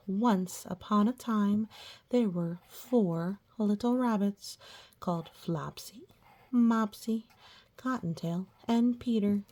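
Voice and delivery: put-on reading a story to children; gentle read-aloud for little ones; storybook reading. A narrator's reading.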